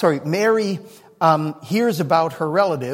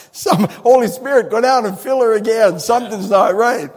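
mock-puzzled command; 5 dB louder than usual. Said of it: "God would be going".

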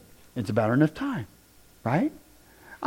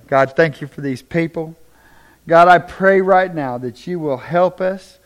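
prayer. Real, not acted. Pastor prays over the congregation, earnestly. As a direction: pray over the room with conviction.

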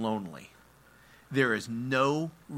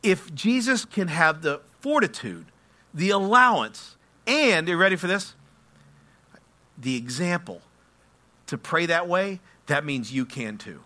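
raised-pitch, emphatic sermon delivery; impassioned preaching; 5 semitones higher, 7 dB louder than usual. Real, not acted. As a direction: preach it firmly, pausing to build expectation. Preaches with force.

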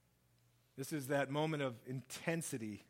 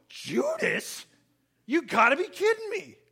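much higher, louder, in a different voice, aghast; stunned disbelief; 13 semitones higher, 8 dB louder than usual. Retold or imitated. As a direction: cry out as if betrayed before your eyes. Disciples shocked at Judas.

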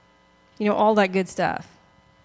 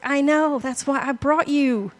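Jesus, lightly voiced; 5 semitones higher than usual. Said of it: "I'm sure he's like".

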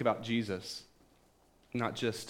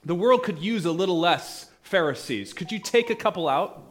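exasperated prayer; 4 semitones higher, 6 dB louder than usual. Pretend. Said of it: "I would have stopped".

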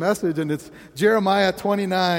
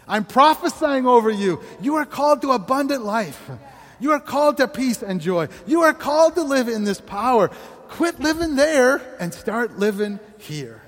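prophetic declaration; 5 semitones higher than usual. Acted. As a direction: proclaim it with full force. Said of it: "God is over here going".

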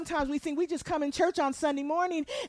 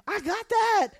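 high, impatient brush-off; dismissive assurance; 8 semitones higher than usual. Acted. Listener brushes off a shopping reminder, dismissive and high. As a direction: cut in as if you know it all. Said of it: "And I'm going".

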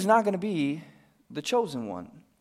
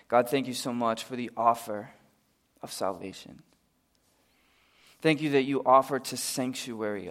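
pastor praying over the congregation; closing prayer. Real, not acted.

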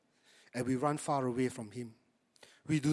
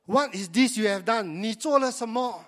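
God questioning Eve; 6 semitones higher, 6 dB louder than usual. Acted. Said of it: "Lord God said to the woman".

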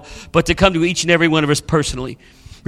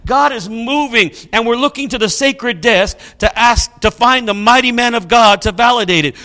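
urgent appeal; 4 semitones higher than usual. Retold or imitated. People plead urgently with their pastor.

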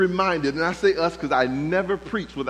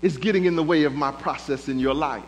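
voice of God; 3 semitones lower than usual. Acted. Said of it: "God says".

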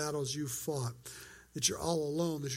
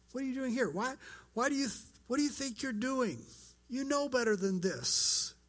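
higher-pitched reproachful questioning; scolding; 5 semitones higher than usual. Acted. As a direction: press them like a disappointed parent. Preacher voices God scolding Elijah.

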